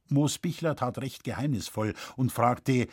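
plain reading voice

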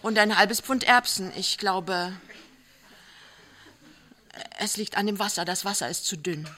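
joking through laughter; laughing. A narrator's reading. Pinneberg teasing his wife about the watery soup, laughing. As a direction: tease her gently while laughing.

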